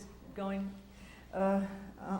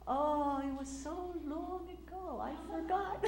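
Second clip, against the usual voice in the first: put-on high, slow teasing old voice; 7 semitones higher, slower than usual. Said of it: "he said".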